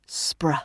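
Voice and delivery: "Spr" whispered as one cluster; blended spr. Shown as a demonstration. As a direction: blend s, p, r softly. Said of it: "then blend them".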